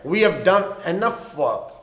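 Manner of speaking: very slow, clear teacher's read; slow example line; slow model sentence. Shown as a demonstration. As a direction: stretch it out for learners. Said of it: "بس آج کے لیے کافی ہے".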